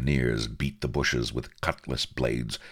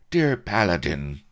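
high, louder, swooning lady; lady's vow; 10 semitones higher, 5 dB louder than usual. A narrator's reading. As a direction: declare it as a mimicked sweetheart. Blood quotes the lady's vow.

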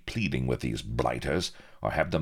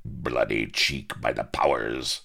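gruff pirate. Acted. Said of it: "howled Firebeard".

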